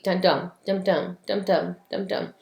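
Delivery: "dum dum" in even pairs, weak then strong; heartbeat rhythm. Shown as a demonstration. Teacher showing students how iambic pentameter mimics a heartbeat, "dum dum" in rhythmic pairs. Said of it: "it kind of mimics a heartbeat".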